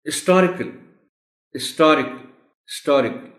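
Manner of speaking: हिस्टोरिकल without H, is-TO-ri-kal; हिस्टोरिकल starting on the vowel, stressed STO; silent H. Shown as a demonstration. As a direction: drop the H from हिस्टोरिकल. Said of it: "एक तो एच silent है".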